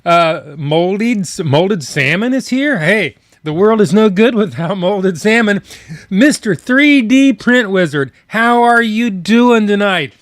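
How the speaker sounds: bright upbeat shout-outs; cheerful greetings. Real, not acted. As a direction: greet each chatter warmly. Greeting chatters by name.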